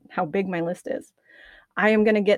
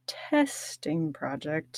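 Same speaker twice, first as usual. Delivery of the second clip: whisper; 3 semitones lower, 6 dB quieter, much slower than usual. Real, not acted. Whispered aside while recording.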